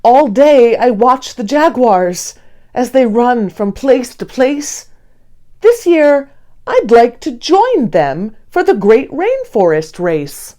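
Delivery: hopeful, lifting voice with a mild push on this year; eager Hank sharing a dream. Acted. Sloth Hank tells his friend Dee his big plan, eagerly. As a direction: pitch the dream with growing eagerness. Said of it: "decides to share his vision".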